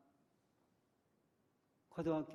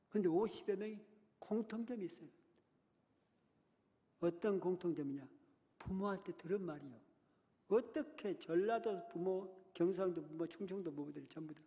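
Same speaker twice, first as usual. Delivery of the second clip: higher, louder preaching, rising in force; impassioned preaching; 5 semitones higher, 4 dB louder than usual. Acted. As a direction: preach it out, pressing the congregation.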